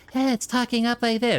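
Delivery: high whisper. Showing one of two whispered layer voices: higher-pitched whisper. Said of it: "one was higher pitched".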